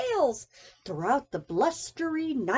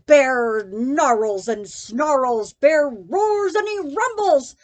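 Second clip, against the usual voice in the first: loud growly narration; 8 dB louder than usual. A narrator's reading. Narrating bear's roaring.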